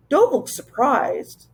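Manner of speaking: lisping Wangdoodle. A narrator's reading. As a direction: tease the startled children with a lisp. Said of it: "His voice was deep and he spoke with an engaging lisp".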